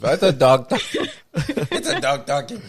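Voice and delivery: laughing attempt at a Portuguese mum's accent. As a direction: copy the Portuguese mum accent, giggling. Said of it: "I don't even wanna attempt it because it sounds offensive".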